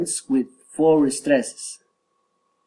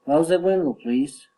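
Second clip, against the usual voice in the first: polite lift on "please"; rising request. Shown as a demonstration. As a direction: let "please" turn upward. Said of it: "rising intonation".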